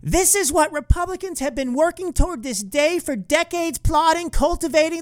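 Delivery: high-pitched, mock-outraged mimicry; hammed-up emotional rant in a high voice; overemotional senator impression. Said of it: "a little emotional to me".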